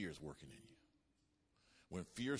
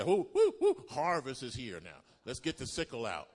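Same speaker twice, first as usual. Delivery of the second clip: joyful whoop; 11 dB louder than usual. Pretend. Believer celebrating the harvest coming in, loud joyful whoops. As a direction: shout for joy at the harvest.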